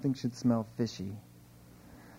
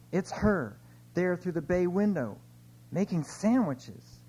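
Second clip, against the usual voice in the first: higher, urgent spy whisper-report tone; tense report; 6 semitones higher than usual. Acted. Spy on the phone to headquarters, urgent and high. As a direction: report in a hushed rush.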